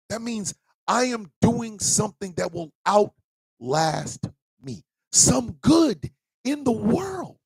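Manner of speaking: high, choked-up earnest speech; high, trembling heartfelt declaration; tearful sincerity. Real, not acted. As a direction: speak through tears of pride. Emotional, high-pitched sincere speech.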